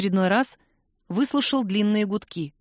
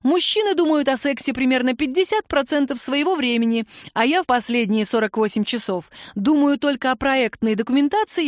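learned cat voice; 4 semitones higher than usual. Acted. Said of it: "голосом учёного же кота затянул Драгин".

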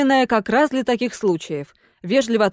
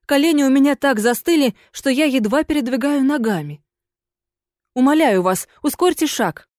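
higher, pleading ghost lady; 4 semitones higher than usual. Acted. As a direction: beg him to walk faster.

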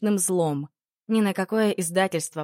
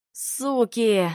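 howled curse; 4 semitones higher than usual. Acted. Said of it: "взвыл Патолог".

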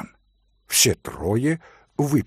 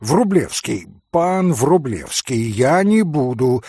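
frightened apology; 4 dB louder than usual. Acted. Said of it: "Митя страшно испугался".

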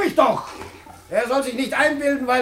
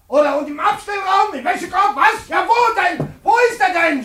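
higher, mock-searching every corner; furious sarcastic search; 4 semitones higher than usual. Landlord mocking the search for the hidden son, furious. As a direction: taunt them while searching room by room.

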